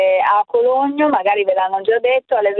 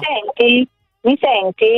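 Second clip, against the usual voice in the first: phone line audio; over the phone; 2 semitones higher than usual. Real, not acted. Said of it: "Ti sento, forte e chiaro". (al telefono)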